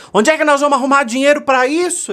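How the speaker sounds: high, loud worried asking; anxious question. Retold or imitated. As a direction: sound alarmed about the money. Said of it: "quando alguém perguntar assim".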